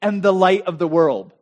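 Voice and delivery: slow, weighty declaration after a pause; Jesus proclaiming. Acted. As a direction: announce it grandly, word by word. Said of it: "Jesus clears his throat".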